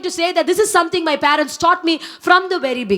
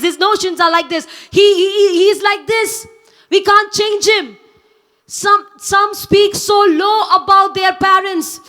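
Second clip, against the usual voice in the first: raised, insistent sermon voice; fervent preaching; 3 semitones higher than usual. Acted. Young preacher urging congregation to honor parents, fervent. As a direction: drive the point home to the young.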